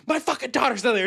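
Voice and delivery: retold scream. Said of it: "she's, like, screaming at him".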